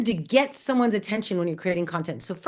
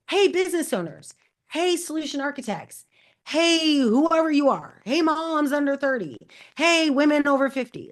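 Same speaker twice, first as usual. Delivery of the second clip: calling out; 6 semitones higher than usual. Shown as a demonstration. Demo calling out audiences.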